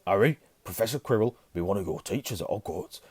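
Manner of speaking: lightly voiced rustic Hagrid. A narrator's reading. Hagrid introduces Harry's teacher, lightly rustic voice. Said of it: "said Hagrid".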